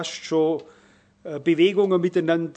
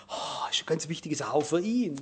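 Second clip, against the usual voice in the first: whisper; 6 dB quieter than usual. Retold or imitated. Pleading with secretary, retold.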